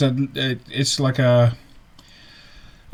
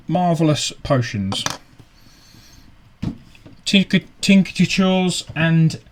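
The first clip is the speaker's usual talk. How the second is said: slow, higher salesman voice, savouring each product; merchant's accent; 3 semitones higher than usual. Acted. Scene: Clive Smatherton pitching his cures to the party, slow higher accented sales voice. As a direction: hawk the potions slowly in the merchant's accent. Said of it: "he says".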